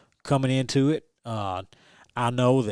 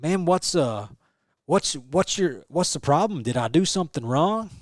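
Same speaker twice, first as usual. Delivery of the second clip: confused commentator; 3 semitones higher than usual. Retold or imitated. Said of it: "He's like".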